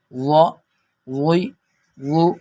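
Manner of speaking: وا وی وو heavy, with no whistle; thick full sound. Shown as a demonstration. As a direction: separate syllables, وا thick and free of buzz. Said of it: "اس کو موٹا پڑھنا ہے". (موٹی آواز والا ظا)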